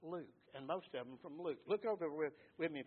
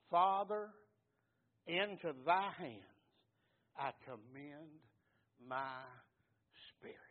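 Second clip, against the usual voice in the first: loud cry to the Father; 6 dB louder than usual. Acted. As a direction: cry out the first words, then surrender slowly. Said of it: "when he had cried with a loud voice".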